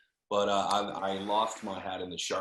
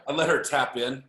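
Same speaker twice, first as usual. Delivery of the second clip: "I let her tap in" repeated louder; 3 semitones higher, 5 dB louder than usual. Real, not acted. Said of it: "I couldn't hear you".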